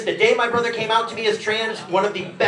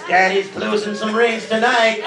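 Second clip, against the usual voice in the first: mock brag. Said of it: "That's how I brag about sex".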